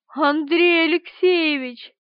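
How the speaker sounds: a steward crying out in heartbreak to his master; anguished cry. A narrator's reading. Минц с надрывом кричит хозяину, голос срывается. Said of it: "с надрывом воскликнул Минц".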